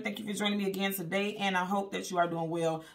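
talking around a piece of candy; words rounded by candy in the cheek; mouth full. Real, not acted. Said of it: "I have candy in my mouth".

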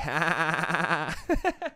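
drawn-out put-on townie laugh; mock a townie's dopey chuckle; affected townie "ha ha"; townie accent. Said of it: "There's a townie accent".

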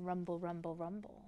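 soft, low thunder echo; low rumbling. A narrator's reading. Narrator asking children what the storm sound means, low rumbling. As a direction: keep it deep and hushed.

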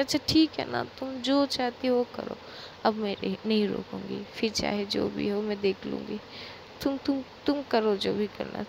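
surrender gently while begging her to stop crying. Acted. Pankhuri gives in, pleading.

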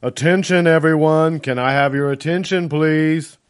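loud, high call over a crowd; yelling. A narrator's reading. Ben calling a noisy crowd to attention, yelling. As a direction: yell to grab a packed room's attention. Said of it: "waved his hands over his head and yelled".

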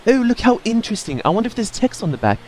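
mock fascinated.

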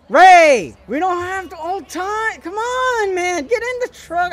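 high, pushed urging at Ray; urgent yelling. Real, not acted. Player yelling at Ray to get in the truck, urgent. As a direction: hurry him in, voice up high.

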